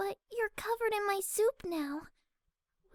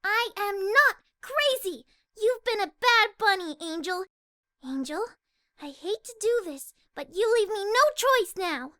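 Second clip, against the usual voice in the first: louder, firm reprimand; angry scolding; 8 dB louder than usual. Acted. Fluttershy angrily scolding Angel Bunny. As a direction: scold the bad bunny firmly.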